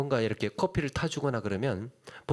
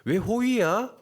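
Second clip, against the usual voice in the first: suspicious scoff; 6 semitones higher, slower than usual. Retold or imitated. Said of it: "뭐 이러는 거예요, 속으로".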